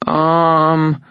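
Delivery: high, uneasy female voice; nervous tension. A narrator's reading. Young woman asked what she needs, nervous tension. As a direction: stall nervously on the sound. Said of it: "there was nervous tension in her".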